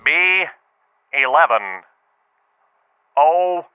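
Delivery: calling out bingo numbers; bingo caller. Shown as a demonstration. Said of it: "I think I remember how it went".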